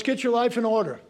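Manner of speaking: loud finger-wagging scold; bossy scolding. Retold or imitated. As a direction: lay down the law to everyone else. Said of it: "We tell everybody else".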